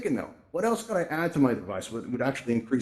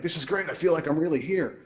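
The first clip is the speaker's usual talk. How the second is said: higher, mildly excited acted quote; excited newcomer; 5 semitones higher than usual. New user marvelling at first VR walk, mildly excited. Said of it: "you're very excited".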